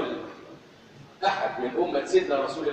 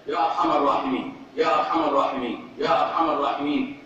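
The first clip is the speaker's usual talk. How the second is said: pleading call; 4 dB louder than usual. Acted. Preacher calling out the plea.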